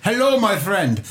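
badly faked Indian accent; mock Indian accent, a bit off. Shown as a demonstration. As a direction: put on a stock Indian accent greeting. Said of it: "I'm pretty good at Indian".

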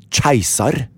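keiser said the Storebø way, opening on a ch sound; "keiser" as dialect "tsjeisar". Shown as a demonstration. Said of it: "Hvordan sier du på din dialekt?".

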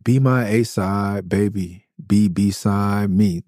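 slow, spaced-out lyric recital; slowly quoted lyric. Retold or imitated. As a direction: savor each phrase of the quoted lyric. Quoting the song's lyric slowly.

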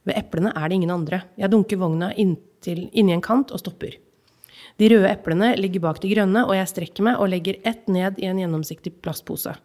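measured reading of a literary excerpt; calm, even narration of a childhood memory; story reading. Acted. Reads novel excerpt aloud.

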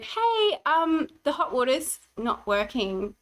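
high, carefully breezy 'hey', then slow and measured; a wife keeping her voice light for her husband, high and slow; forced calm. Retold or imitated. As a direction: swallow the anger and sound casual. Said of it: "Be calm. Be cool".

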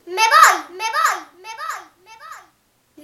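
loud cry fading away to almost nothing; shouting I'm leaving. Acted. Girl shouting she's leaving, fading out. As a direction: start with a shout, then let each repeat die down. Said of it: "grité".

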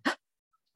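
quick sharp intake of breath; sharp gasp. Shown as a demonstration. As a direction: gasp in sharply before speaking. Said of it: "a kind of gasp".

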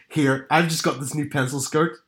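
imitated Belfast mum fishing for an opinion; strong Belfast accent, lightly comic; Northern Irish mum. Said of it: "Northern Irish mum".

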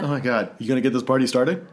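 fast, hammy pickup line voice; mocking pickup line. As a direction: ham up the cheesy come-on.

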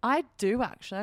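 lightly put-on British accent. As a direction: slip playfully into a British accent. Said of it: "why'd you go British again".

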